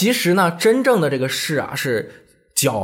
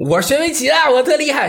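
boasting nephew; 10 semitones higher, 4 dB louder than usual. Retold or imitated. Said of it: "小侄子说".

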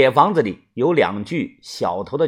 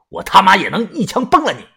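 大声; 2 semitones higher than usual. Acted. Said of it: "大声地说道".

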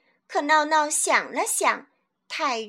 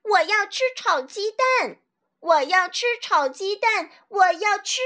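higher pitched, insistent repeated yell; yelling demand; 5 semitones higher than usual. Acted. Boy yelling at deaf grandma, insistent shout. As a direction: shout it at grandma who can't hear. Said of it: "指着嘴大叫".

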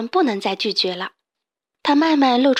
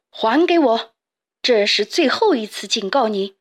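louder, stern threat; furious pharaoh's last warning; angry warning; 3 dB louder than usual. Acted. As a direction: demand it back, menacing. Pharaoh warns the thief.

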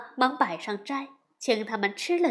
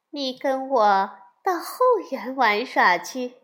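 seductive woman; 4 dB louder than usual. Acted. 妖女搂住悟空勾引他.

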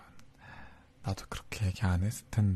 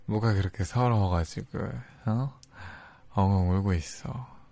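louder, fondly scolding tease; playful teasing; 4 dB louder than usual. Acted. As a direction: tease her lovingly for sobbing. Teasing her for crying.

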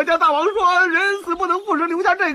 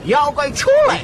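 shouting challenge. Acted. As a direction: bellow it at the cave mouth. Disciples calling demon from cave.

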